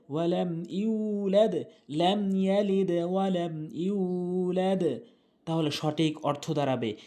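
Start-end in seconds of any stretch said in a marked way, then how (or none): 0.1-4.8 slow, measured Arabic recitation with long held vowels; Quran recitation. Shown as a demonstration. Teacher reciting the sura correctly for learners, slow recitation. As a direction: recite slowly, drawing out each long syllable.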